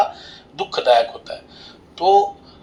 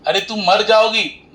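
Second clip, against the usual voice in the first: pitched-up acted warning; alarmed warning; 6 semitones higher than usual. Husband warning stubborn wife in the river, mock alarm. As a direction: exclaim it high, as a storyteller's mock alarm.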